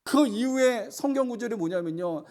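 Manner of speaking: climbing sermon cadence; fervent preaching. Acted. Preaching at full force.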